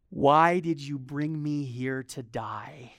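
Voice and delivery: slow, lightly whiny plea to God; a hint of a desperate complaint; imitating a frightened believer; mock despairing cry. Crying out to God in storm.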